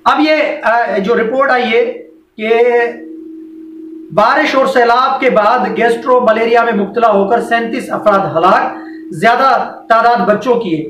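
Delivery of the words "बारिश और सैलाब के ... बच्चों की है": measured read-aloud from the newspaper; news report reading. Real, not acted. Host reads flood disease report to viewers, formal news reading. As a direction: read it out evenly in formal phrases.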